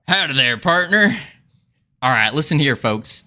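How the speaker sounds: put-on Southern accent. Streamer greeting viewers in a put-on Southern accent. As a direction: lay on the Southern accent like a cowboy host. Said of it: "a full-on Southern accent".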